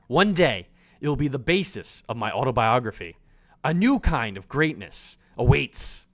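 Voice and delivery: low, haughty chef reading his journal; a grand, self-important chef voice; pompous chef Gustav. Acted.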